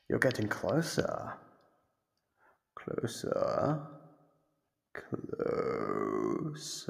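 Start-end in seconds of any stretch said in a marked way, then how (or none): 2.8-3.8 breathy whisper, rising, much higher; whispered coaxing. Acted. Captor whispering to lure the prisoner closer. Guiding prisoner toward her. 4.9-6.9 much lower, slow and rising; low drawn-out lure. Acted. Captor luring the prisoner closer with a low drawn-out call. Guiding prisoner toward her.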